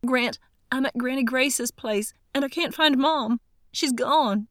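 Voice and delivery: crying it out as if it's all falling apart; panicked plea. Acted. Darcy on the phone to Grant, her mother missing, panicked.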